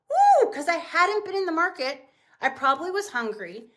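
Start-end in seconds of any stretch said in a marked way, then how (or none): 0.1-0.5 very high, loud shopping-spree whoop; gleeful whoop. Retold or imitated. Herself in the market, hungry, whooping with glee. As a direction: let out a giddy cheer. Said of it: "I was like".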